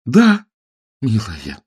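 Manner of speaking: высоко и громко, от восторга; выкрикнуть от счастья; радостный возглас. Acted. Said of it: "воскликнул Сэм". (Сэм ликует после её согласия, громко и высоко)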